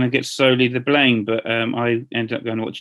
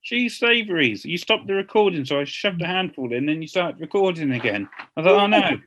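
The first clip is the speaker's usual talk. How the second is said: mouth full; 2 semitones higher than usual. Real, not acted. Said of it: "What are you eating?".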